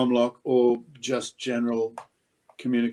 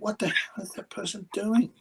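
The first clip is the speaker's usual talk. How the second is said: exasperated thought; 9 semitones higher than usual. Retold or imitated. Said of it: "and you think".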